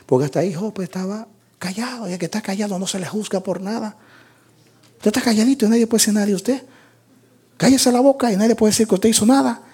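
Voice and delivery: high, rapid-fire homespun reasoning; fast, high singsong explaining; quick preacher's aside. Acted.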